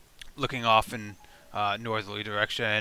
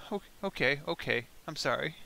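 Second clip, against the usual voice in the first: whispered; 3 semitones higher, 6 dB quieter than usual. Acted. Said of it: "Oh, I whispered that".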